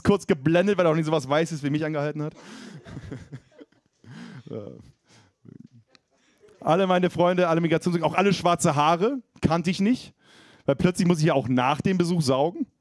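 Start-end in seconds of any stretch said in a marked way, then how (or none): none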